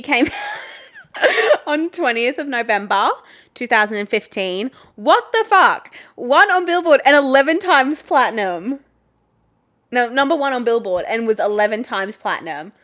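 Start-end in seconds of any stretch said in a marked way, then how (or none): 5.0-8.8 high, loud disbelief; what the fuck, said high and loud; shocked. Real, not acted. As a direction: blurt it out stunned. Shocked at album stats.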